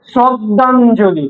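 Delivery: শ্রদ্ধাঞ্জলি said slowly and deliberately; drawn-out word. Shown as a demonstration. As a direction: stretch the word out for pupils. Teacher sounds out example word. (শব্দটা ধীরে, টেনে উচ্চারণ)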